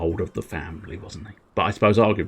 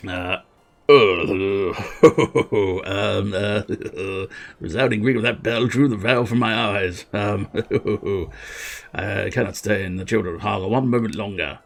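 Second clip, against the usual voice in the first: stammering, chuckling royal voice; faltering royal figure. Acted. Character roused by a resounding bell, faltering and chuckling. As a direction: dither through the grand lines.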